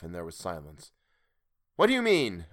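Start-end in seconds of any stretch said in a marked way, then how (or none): 1.8-2.5 high, louder astonished question; growing astonishment. A narrator's reading. Sailor questioning the unseen stranger, astonished. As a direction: ask it in rising astonishment. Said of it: "growing more and more astonished".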